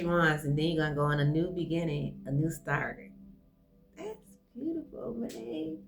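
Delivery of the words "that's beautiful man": choked up. Real, not acted. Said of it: "I'm not gonna cry".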